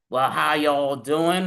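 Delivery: a hint of a laid-back cop saying hello; Horatio Kane greeting. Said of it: "My name is Horatio Kane".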